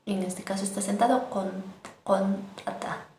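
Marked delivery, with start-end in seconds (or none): 2.0-3.0 contata slow, the ta popped hard; slow contata with an explosive ta. Shown as a demonstration. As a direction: burst the ta in contata, slowly. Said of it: "explosivo la ta".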